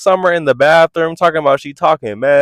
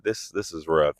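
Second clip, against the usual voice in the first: hushed aside; 11 semitones lower, 11 dB quieter than usual. Retold or imitated. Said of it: "I'm like".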